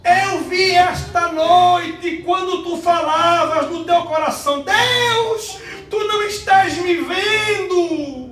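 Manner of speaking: high, loud, slow prophetic shouting, near tears at the end; prophesying shout. Retold or imitated. Sister prophesying over him at the office, slow high shout. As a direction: proclaim it as God's voice, shouting. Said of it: "ela disse".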